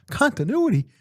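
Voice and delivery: can't believe what he's hearing; hammed-up exasperated disbelief; incredulous. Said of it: "We're like".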